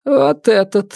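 high, commanding point; single out the culprit coldly; stern widow. Acted. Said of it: "сказала она".

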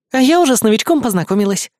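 high, quick breathless little vixen; fox girl voice. Acted. Fox cub bursting in at the door, high and breathless. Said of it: "выпалила запыхавшаяся лисичка".

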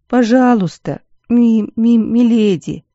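put-on a girl choking up mid-word; crying stammer. A narrator's reading.

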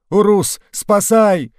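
high, loud tearful begging; weeping plea. A narrator's reading. Old man clutching the officer's boot, high tearful begging. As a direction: beg the Russian to save you, crying. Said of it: "настоящими слезами плакал старец".

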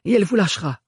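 a hoarse, threatened plea. Acted. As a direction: push it out through a sore throat. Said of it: "d'une voix enrouée".

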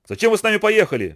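a mild shouted question from the stern; cry out. A narrator's reading. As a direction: demand it with a sudden cry. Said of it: "вскричал Кофи".

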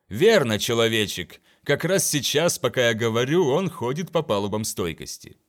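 loud, grand announcement; booming captain. Acted. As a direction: proclaim it to a servant. Captain addressing slave loudly.

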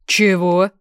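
loud, indignant "what?"; loud startled question; startled splutter. A narrator's reading. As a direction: blurt it out, taken aback. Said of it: "поперхнулся Громов".

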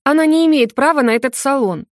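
high, loud outburst; cry out. A narrator's reading. Akimova cries out at the investigators, loud. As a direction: burst out indignantly. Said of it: "вскрикнула девушка".

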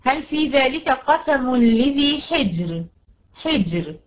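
slow recitation, حجر ending in a thin R; recite, closing حجر on a light still R; measured verse, R of حجر kept thin; light ra at stop. Shown as a demonstration. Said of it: "الراء هنا هترقق".

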